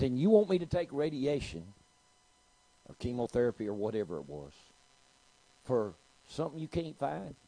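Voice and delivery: high, loud retort in disbelief; incredulous challenge. Retold or imitated. Patient questioning radiation for nothing, loudly incredulous. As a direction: question the doctor as if it's absurd. Woman disbelieving doctor, acted in story.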